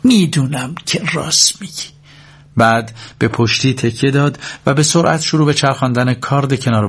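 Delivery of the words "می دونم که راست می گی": high, sharp-voiced reply; sharp-toned comeback; sharp retort. A narrator's reading. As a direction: answer back in a sharp, raised pitch. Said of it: "با صدای تیزی جواب داد".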